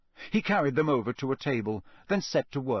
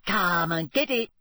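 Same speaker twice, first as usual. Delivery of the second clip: teasing, higher-pitched taunt; malicious giggle; 5 semitones higher, 3 dB louder than usual. A narrator's reading. Mermaid holding Harry's broom out of reach, taunting. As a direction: dangle it out of reach and goad. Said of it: "she giggled maliciously".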